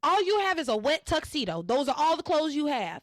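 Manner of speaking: comic disbelief, lightly hammed up; exasperated scolding. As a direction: press him on his silly excuse. Host mock-scolds the soap character.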